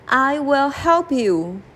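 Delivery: a tiny mouse making a promise; a little mouse promising the lion. Acted.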